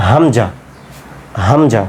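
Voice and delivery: "হামজা" said with a clean glottal catch, Arabic style; teacher modelling Arabic "হামজা"; Arabic hamza. Shown as a demonstration. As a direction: demonstrate "হামজা" slowly, letter by letter. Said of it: "এটাকে বলি আমরা কি".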